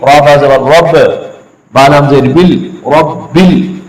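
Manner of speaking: slow spelling of "रब्बिल"; letter by letter, chanted; spelled recitation. Shown as a demonstration. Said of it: "अब देखिए". (हिज्जे करके धीमी तिलावत)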